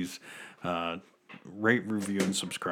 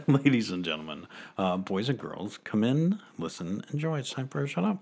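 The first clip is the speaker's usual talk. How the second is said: grand entrance announcement; 3 semitones higher than usual. Acted. Podcast intro announcement.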